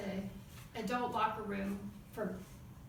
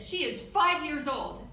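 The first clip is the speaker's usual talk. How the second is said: slow, loud, indignant emphasis; mock outrage, each word hammered slowly; imitated screaming mom; 3 semitones higher, 6 dB louder than usual. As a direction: spell it out loudly like an outraged mother. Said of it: "She's screaming at me, and finally she said".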